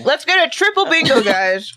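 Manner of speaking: talking around a mouthful of ice; words through crunching ice; chewing ice. Real, not acted. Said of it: "I'm chewing on ice".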